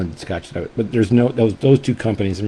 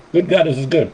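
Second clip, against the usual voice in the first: higher, with a laugh, delighted; 8 semitones higher, 4 dB louder than usual. Real, not acted. Reviewer tasting a beloved scotch again, laughing with delight. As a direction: burst out laughing with joy at the taste.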